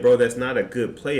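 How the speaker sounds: firm mock argument; retold call-out. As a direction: stand your ground with him. Arguing with the coach.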